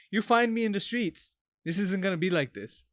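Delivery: fired-up imagined threat; heated challenge. Acted. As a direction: square up to someone, voice lifted. Imagined street confrontation with abusive customer.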